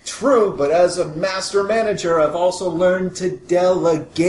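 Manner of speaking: high, chipper corporate mascot voice; beaming, over-sweet salesman; cheery spokesman. Acted. Mister Smiley voice.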